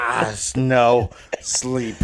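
put-on a touch of sleepy drunk; drunk refusal. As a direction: lightly play a cadet too drunk to move. Acting the cadet lying against wall.

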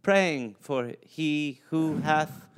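put-on slow, solemn old preacher; pious preacher. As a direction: intone it like a pious parson.

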